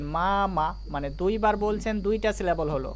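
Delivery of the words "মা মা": "মা, মা" in two distinct pushes; syllable by syllable. Shown as a demonstration. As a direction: break it into "মা" and "মা". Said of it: "তার পরের ঝোঁকে আর একবার মা".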